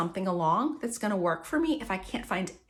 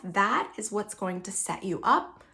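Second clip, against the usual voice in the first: normal talking voice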